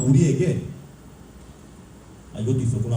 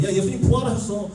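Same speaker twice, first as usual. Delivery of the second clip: thrilled, higher-pitched announcement; excited angel; 6 semitones higher than usual. Acted. Angel bringing disciples news of the resurrection, excited. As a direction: burst out with joyful news, pitched up. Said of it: "천사들이 지금 신나게 나타나서".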